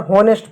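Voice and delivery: हॉनेस्ट with a sounded h; H pronounced. Shown as a demonstration. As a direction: start हॉनेस्ट on an h. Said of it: "हॉनेस्ट नहीं होता". (एच बोलकर "हॉनेस्ट")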